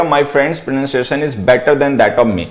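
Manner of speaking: slow, word-by-word reading of the corrected sentence, ending "me"; slow dictation. Shown as a demonstration. Teacher dictating the corrected sentence to students, very slow. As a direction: dictate it slowly, landing on "me". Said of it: "तो आपको लिखना पड़ेगा".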